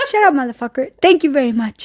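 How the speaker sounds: imitating aunt's odd accented English; lightly mimicked Spanish-speaker accent in English; weird accent. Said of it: "it was in a bit weird accent".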